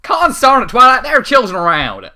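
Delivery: high, loud scolding yell. Acted. Applejack yelling at Twilight in the market, loud and high. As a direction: holler it like an outraged farm mare. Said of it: "Applejack yelled".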